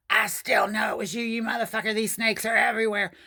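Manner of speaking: high, breathy menacing whisper through the door; whispered high taunt; eerie drunk whisper. Retold or imitated. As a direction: hiss it like a paranoid drunk.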